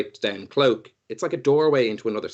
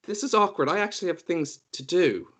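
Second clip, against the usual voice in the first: much higher, whiny and teasing; mock-hurt child; 13 semitones higher than usual. Iggy pouts at his mother, squeaky and hurt. Iggy's high put-on voice to mother.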